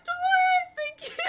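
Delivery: loud, high relieved shout; excited relief. Real, not acted. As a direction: burst out with relief. Name finally remembered, relief.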